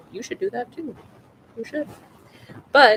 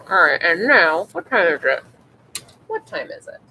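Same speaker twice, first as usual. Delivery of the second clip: talking around a pen held in the teeth; pen in mouth; 6 dB louder than usual. Real, not acted. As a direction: mumble with a pen between your teeth. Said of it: "I'm trying to talk while holding a pen in my mouth".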